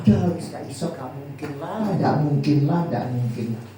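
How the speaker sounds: imitating a pessimist who gives up; pessimistic. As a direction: voice someone defeated, repeating it as it sinks. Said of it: "Nah, pesimis".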